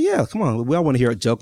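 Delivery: eager excitement. Retold or imitated. Eager students welcome the joke.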